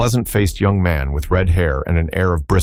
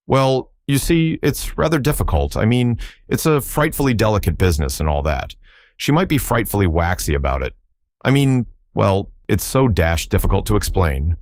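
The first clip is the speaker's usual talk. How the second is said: put-on flustered young toff; 3 semitones higher than usual. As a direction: stammer it out like an embarrassed young gentleman. Young man flustered about details.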